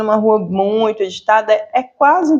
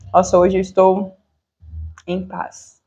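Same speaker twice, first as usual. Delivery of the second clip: peaceful sigh; 3 semitones lower than usual. Pretend. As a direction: let it drift away into near silence. Imagined calm student after silence.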